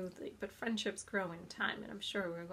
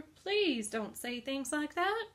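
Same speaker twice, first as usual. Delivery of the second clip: slow, higher, louder pained groan of a piglet; groaning plea; 6 semitones higher, 5 dB louder, slower than usual. Acted. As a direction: drag it out in dismay. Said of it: "groaned Wilbur".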